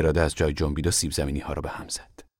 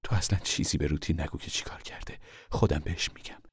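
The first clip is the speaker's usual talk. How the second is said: quiet, confiding mother; 2 semitones lower, 8 dB quieter than usual. Acted. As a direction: give the caution under your breath. Mother confides plan to papa. (هشدار آهسته و بم مادر)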